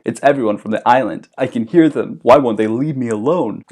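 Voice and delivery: mild mock panic; mock distraught. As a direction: plead like he hears ghosts. Ralph haunted, crying.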